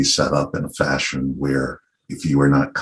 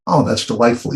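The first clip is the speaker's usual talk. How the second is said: higher-pitched mock delight; charmed reaction; 7 semitones higher than usual. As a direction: lightly imitate a charmed listener. Acts out Americans charmed by accent.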